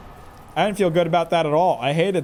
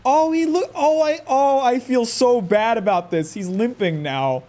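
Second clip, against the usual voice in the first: distressed whine; 10 semitones higher, 4 dB louder than usual. Real, not acted. Player forced to finish a limping dog, anguished. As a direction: plead as if it hurts to go on.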